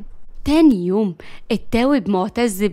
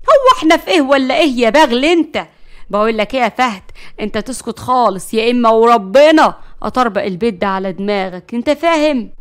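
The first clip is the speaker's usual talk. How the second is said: furious threat; 6 dB louder than usual. Acted. Narges silencing Fahd with a loud threat. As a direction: shut him up with a threat.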